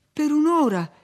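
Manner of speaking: high, loud, impassioned plea; ardent pleading. A narrator's reading. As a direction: beg him fervently. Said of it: "la supplicò lui ardentemente".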